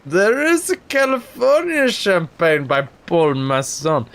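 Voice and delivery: slow, grand wine-ad narrator voice; lightly imitated old ad announcer; Orson Welles.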